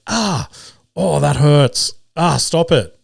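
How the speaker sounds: high, mock pained yelps of a young boy; imitating kid's pained yelp. Kid yelling at game, imitated.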